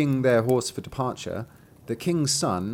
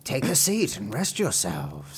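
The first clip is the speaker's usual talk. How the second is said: fake friendly witch; 3 semitones higher than usual. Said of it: "pretended to be quite friendly".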